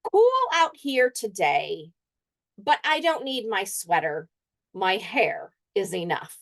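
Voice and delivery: teacher reads the dog's weather haiku to the class; dog reciting a haiku. Acted.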